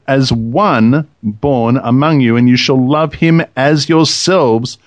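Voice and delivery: slow, measured Bible reading; scripture reading. Acted. Host reads the law about strangers to co-hosts, measured scripture reading. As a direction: read it out deliberately, weighing each phrase.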